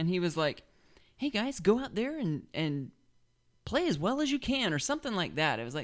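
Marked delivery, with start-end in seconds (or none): 1.2-4.7 light, meek, high voice. Speaker compares two coaches' locker-room speeches, doing a soft, meek Mullen imitation. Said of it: "soft little kind of... light, meek".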